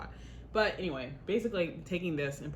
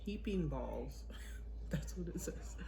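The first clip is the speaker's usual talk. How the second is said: whispering; 4 dB quieter than usual. Real, not acted. Reading recipe, amused.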